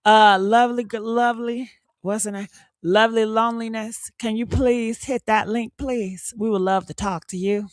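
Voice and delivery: sweeten it up to coax her in; polite honeyed invitation; nice and sweet. Shown as a demonstration. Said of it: "let me be nice".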